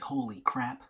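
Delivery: a quick whispered gasp of alarm; hushed holy crap. Retold or imitated. British officers whisper in alarm over the letter. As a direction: breathe it out like shocked intelligence officers.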